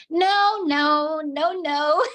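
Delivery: insistent, playful veto; mock firm refusal. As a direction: act out putting your foot down. Retells refusing child's candied scorpions.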